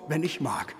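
"wenn" hit hard, falling, the rest drops soft; stress on wenn. Acted. Uncle mocking his nephew's invitation, stressing "wenn". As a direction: lean on "wenn" to make it conditional. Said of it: "Also mit der Betonung auf".

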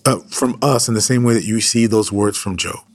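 earnest, steady prayer voice; fervent pastoral prayer; closing prayer. Acted. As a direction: pray over the listeners.

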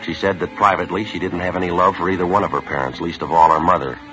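crisp, measured police-report narration; detective reporting the investigation to the listener; case narration. Acted. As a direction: log the facts, dry and steady. Detective narrates the case over music.

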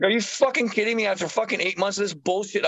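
high-pitched, indignant mock yell; retold angry yelling. Tattooist retelling his yelling at the casting caller, indignant high-pitched mock yell. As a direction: replay an outraged yell down the phone. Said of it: "I'm yelling in the fucking phone at her".

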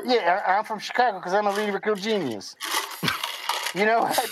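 muffled voice through a mask; talking through a hot rubber mask; inside a rubber mask. Real, not acted. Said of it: "It is fucking hot in this mask".

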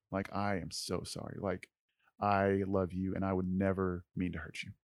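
soft, remorseful reassurance; subdued, emotional apology; tearful apology, retold. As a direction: retell a heartfelt sorry, quietly. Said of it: "I start to cry".

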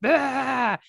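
annoying cry. Shown as a demonstration. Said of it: "the most annoying sound".

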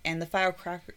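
tipsy slurred word; stumbling numb-mouthed reading. Real, not acted. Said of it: "your mouth is numb. It's the vodka".

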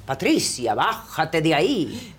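drawn-out mock call from the seats; retold shout. Pita heckles the actress from the audience, half-shouting. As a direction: call her down, stretching the words. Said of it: "en las butacas y grita".

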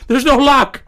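high-pitched mock panic; panicked protest. Kid in the stall to his dad, mock panicked. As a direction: imitate a flustered kid pleading his excuse.

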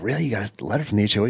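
quick, feigned-innocent question; playing dumb. Prankster asking about his own letter, playing dumb. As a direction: act as if it is news to you. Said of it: "just playing dumb".

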